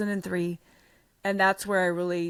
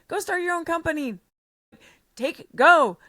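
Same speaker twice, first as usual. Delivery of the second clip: high, fast push to go for it; urging her out the door, rising to a loud finish; excited urging; 8 semitones higher, 6 dB louder than usual. Retold or imitated. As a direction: boss urging his top trainer to go, loud and excited. Boss urging her to leave.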